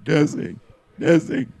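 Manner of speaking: cracking robot voice; robot voice breaking like puberty. Shown as a demonstration. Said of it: "you sound like a robot going through puberty".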